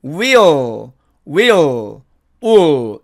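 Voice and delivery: "will" said as we'll, "wi-o", tongue short of the L; contracted we'll. Shown as a demonstration. Teacher modelling we will shortened, contracted. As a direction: glide "will" into "wi-o" with no closed L. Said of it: "이렇게 발음이 됩니다".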